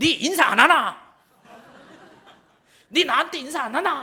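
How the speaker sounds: very loud, high, blunt Gyeongsang dialect. Retelling what a church member said, in a loud Gyeongsang dialect. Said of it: "목소리 크면 / 경상도 분들".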